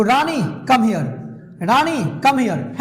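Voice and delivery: slow firm command, come stressed; as an order. Shown as a demonstration. Teacher demonstrating an order to a student. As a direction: call Rani over, slowly. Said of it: "order देना है तो".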